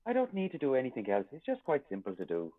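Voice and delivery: casual Irish accent. Shown as a demonstration. Showing the co-host how easily it comes, Irish accent. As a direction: slip easily into an Irish lilt. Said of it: "slipping into an Irish accent".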